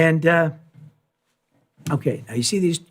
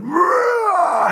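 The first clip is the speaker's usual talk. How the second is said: much higher, loud roar; mock lion roar; 3 dB louder than usual. Retelling the lion roaring at the silent audience, loud high mock roar. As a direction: belt out a lion's roar.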